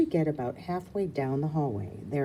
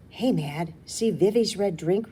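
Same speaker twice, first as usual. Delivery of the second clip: put-on eager child voice; 4 semitones higher, 5 dB louder than usual. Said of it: "Rue says".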